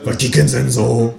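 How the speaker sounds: lightly voiced gossipy old neighbor; a hint of a nosy busybody. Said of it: "fragt sie".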